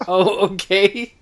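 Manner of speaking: awkward oh okay. Retold or imitated. To a stranger at the concession stand, a slow awkward oh okay. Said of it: "I'm like".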